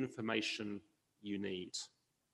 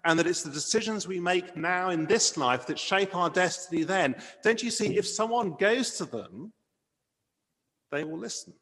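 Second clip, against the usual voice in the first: higher-pitched, mildly urgent pleading; urgent protest; 4 semitones higher than usual. Acted. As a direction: protest as the rich man, insisting he be understood. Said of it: "the urgency in his voice".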